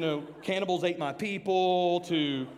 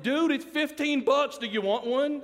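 louder and higher, slow, grinning through the offer; loud, slow sales pitch; 8 semitones higher, 5 dB louder, slower than usual. Retold or imitated. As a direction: push the fifteen bucks hard and slow. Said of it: "I looked at him, I said".

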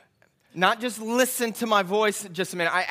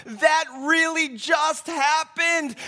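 stunned disbelief; 4 semitones higher, much slower than usual. Retold or imitated. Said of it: "It was like he was in awe".

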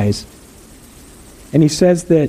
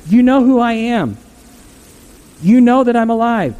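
Jesus speaking higher, warm and friendly; a lightly raised voice of a reassuring friend; voicing Jesus; 4 semitones higher than usual. Jesus reassuring his old friend John, higher and friendly.

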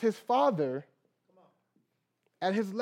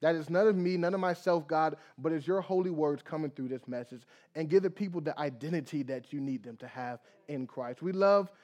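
prayer; 3 semitones lower than usual. Acted. Opening prayer before message.

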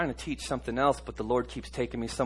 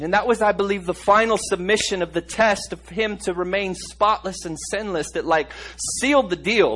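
loud, higher, fervent preaching; preacher lifting the congregation with a loud, high pitch; preaching at full force; 6 semitones higher, 9 dB louder than usual. Acted. Preacher to his congregation about the adulteress, preaching loud.

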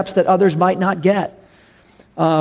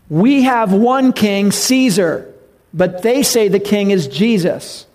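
crowd yelling; 3 semitones higher, slower than usual. Retold or imitated. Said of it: "They were yelling out the reason".

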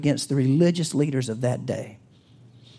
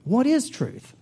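higher, sharper retort; Pilate retorting again; 6 semitones higher, slower than usual. Acted. Pilate retorting to Jesus, pitched up. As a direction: toss the question back higher. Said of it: "retorted Pilate".

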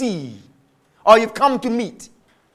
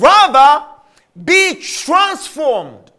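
preached shout; 2 semitones higher, much slower than usual. Acted. Preacher's call to change.

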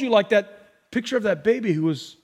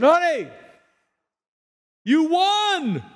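higher, mildly raised retold shout; retold joyful cry; 8 semitones higher, much slower than usual. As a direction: echo a husband's joyful call to his wife. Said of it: "at the top of his voice".

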